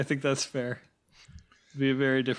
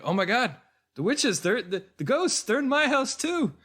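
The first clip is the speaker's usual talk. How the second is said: high-pitched, panicky viewer impression; mock hysteria; 10 semitones higher than usual. Random viewer tuning in and believing it, mock hysteria. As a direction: imitate a panicking viewer, climbing higher to the end. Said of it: "amplify the sense of hysteria".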